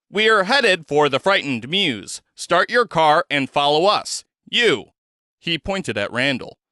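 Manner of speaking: a hint of a cold stranger giving orders, firm; lightly voiced commanding stranger. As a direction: give each order like it can't be refused. Zed gives orders.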